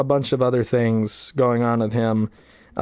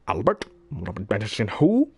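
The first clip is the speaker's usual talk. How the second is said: mock Grinch sneering through the phone book; lightly voiced Grinch reading names; 2 semitones lower than usual. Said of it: "thing I remember was The Grinch".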